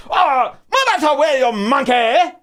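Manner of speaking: high-pitched hammed-up yelling; mock angry old man. Old Chinese man bumps into a guy, mock angry yell. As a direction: yell it high, a caricature of fury.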